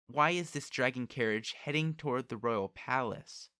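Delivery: haughty interrogation; proud, demanding girl. Acted. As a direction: put the question like a royal test.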